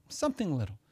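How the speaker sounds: quiet repetition of something little; soft echo. Shown as a demonstration. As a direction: let the echo drop away. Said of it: "It's something little".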